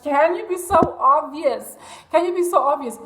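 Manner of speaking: retold mocking disbelief. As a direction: scoff at how easy it was. Retells mocking the obvious password.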